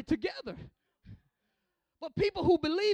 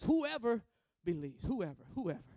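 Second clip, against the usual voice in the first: soft repetition; 6 semitones lower, 8 dB quieter than usual. Real, not acted. Soft repeated closing line.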